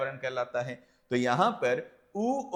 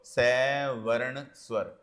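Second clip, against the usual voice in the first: slow dictation; 3 semitones lower, much slower than usual. Shown as a demonstration. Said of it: "यहीं लिख देता हूं".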